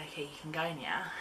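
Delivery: whispered, unvoiced; whispered quote. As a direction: breathe it without voice. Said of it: "as to say".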